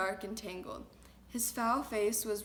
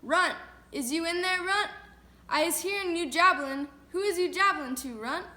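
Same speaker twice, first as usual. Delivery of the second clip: loud, higher giant's bellow; thundering shout; 7 semitones higher, 8 dB louder than usual. A narrator's reading. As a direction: roar it through the cave wall. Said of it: "a voice like thunder shouted".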